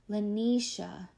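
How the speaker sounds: "Lanisha" slowly, stress on a crisp NI; bright second syllable. A narrator's reading. Mother says "Lanisha" to her daughter, crisp second syllable. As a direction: lean gently on the middle of "Lanisha". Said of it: "The second syllable is bright and crisp".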